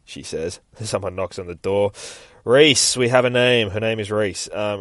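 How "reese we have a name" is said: raised, higher-pitched call. Acted. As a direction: call loudly through to someone backstage. Calling out to singer backstage.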